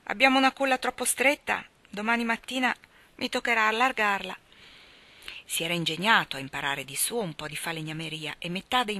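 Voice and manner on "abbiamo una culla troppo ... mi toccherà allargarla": higher, louder, cheerful father; a countryman joking about the cradle; father's voice. A narrator's reading. Father jokes about widening the cradle, higher and louder.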